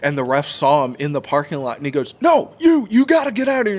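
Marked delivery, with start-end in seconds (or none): 2.2-3.8 high, shouted order to leave; irate referee. Retold or imitated. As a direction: imitate a ref kicking someone out. Ref ordering dad out, retold.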